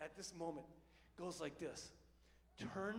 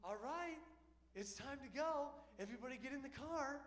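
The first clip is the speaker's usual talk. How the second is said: a light, higher, sing-song flight attendant chirp; stewardess mom; 5 semitones higher, 4 dB quieter than usual. Retold or imitated. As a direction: chirp it like a polite stewardess herding passengers. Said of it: "Kinda like a stewardess".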